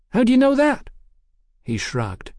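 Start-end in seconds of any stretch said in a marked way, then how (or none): 0.1-0.9 put-on much higher, lilting voice for a forward London girl; high-voiced cheeky London girl.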